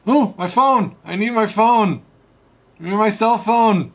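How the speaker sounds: high, loud desperate cries; frantic shouting. Acted. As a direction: shout after a lost phone. Losing phone while falling.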